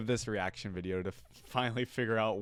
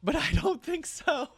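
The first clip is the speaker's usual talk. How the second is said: higher, hammed-up echo of the yordle; mock redneck yordle. Fan mimicking the yordle's smug line, higher and hammed-up.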